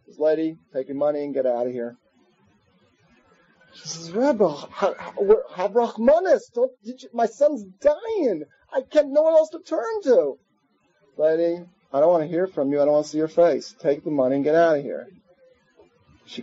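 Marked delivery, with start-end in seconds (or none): 0.7-2.0 low, fast, cold brush-off; curt dismissal. Retold or imitated. The Rebbe coldly sends the begging lady out, fast and low. 4.1-10.4 climbing ever higher, begging, voice rising; desperate pleading. Retold or imitated. A mother begs the Rebbe for her dying son, pleading ever higher. 11.2-15.1 low, fast, cold brush-off; curt dismissal. Retold or imitated. The Rebbe coldly sends the begging lady out, fast and low.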